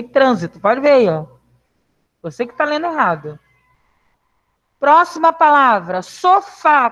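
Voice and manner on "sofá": "Sofá" drawn out with weight on FÁ; stress on last syllable. Shown as a demonstration. Teacher asks class for the tonic syllable, stressed "Sofá". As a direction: lean on the final syllable of "Sofá". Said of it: "Qual a sílaba tônica?".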